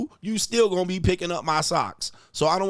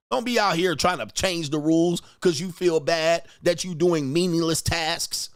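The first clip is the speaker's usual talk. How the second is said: normal talking voice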